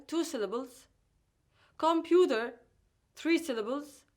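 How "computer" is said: com-PU-ter, middle syllable stressed; stress before last syllable. Shown as a demonstration. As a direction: punch the PU in computer. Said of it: "stressed on the syllable before".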